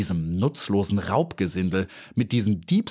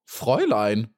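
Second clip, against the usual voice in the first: grasshopper calling out. Acted. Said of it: "rief er".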